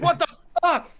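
put-on high, loud freak-out in an American accent; panicked shout, German accent dropped. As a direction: shriek in alarm, accent gone. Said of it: "he drops the German accent".

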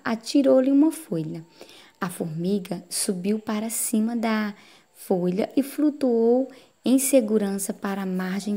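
expressive storybook reading with lifted key phrases; fable read aloud. A narrator's reading. Teacher reading the dove and ant fable to pupils, storytelling. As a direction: read it to pupils, drawing out the dramatic words.

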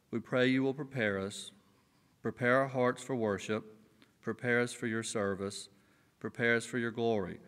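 prayer. Acted. Pastor leads congregation in prayer.

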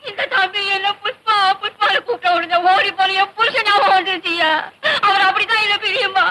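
put-on old woman crying as she explains; tearful lament. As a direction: lament a runaway husband through tears. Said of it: "ஏன் கிழவி அழுற?". (அழுதுகொண்டே புலம்பல்)

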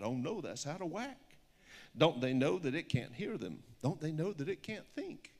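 lilting rhyming picture-book read; story reading. Acted. Author reads her picture book aloud to an audience, storybook lilt. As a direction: read the rhyme with a steady storybook bounce.

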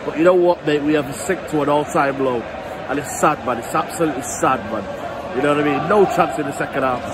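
a lightly played heartbroken United fan, ranting on and on; gutted fan rant. A gutted fan rants to camera about his club, mildly hammed-up. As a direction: vent like a fed-up season ticket holder, half-mocking.

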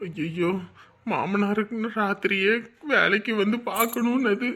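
soft, slow muttered grumbling; quiet grumble. Acted. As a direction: grumble under his breath. Husband muttering alone.

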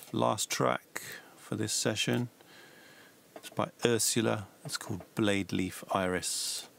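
slow announcer-style track intro; radio DJ voice. Pretend. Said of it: "Sound like a radio D J".

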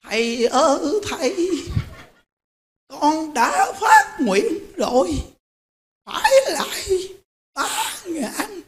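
put-on high, slow quavering old woman's plea; elderly woman's earnest high plea; old woman pleading. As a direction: voice a frail ninety-five-year-old begging the master. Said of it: "bà nói nè".

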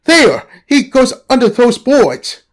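high, urgent call; excited. Acted. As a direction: keep yelling the alarm. Boy spots the snake.

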